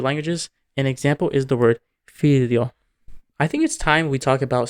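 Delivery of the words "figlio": "figlio" with a palatal L for gli; Italian palatalization. Shown as a demonstration. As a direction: melt the gl of "figlio" into one palatal sound. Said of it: "there is some palatalization".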